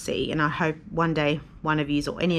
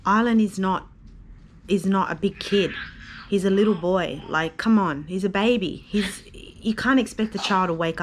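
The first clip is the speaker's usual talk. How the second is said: real upset, louder and insistent; 3 semitones higher, 4 dB louder than usual. Real, not acted. Jet-lagged mother defending her sleeping baby, real upset. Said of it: "I was so upset".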